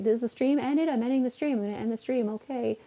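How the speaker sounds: high-pitched dithering, ending in a stretched goodbye; awkward sign-off. Acted. Streamer acts out awkwardly ending the stream, high-pitched and lingering. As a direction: dither in a high voice, then draw out the farewell. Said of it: "the awkward part where I'm like".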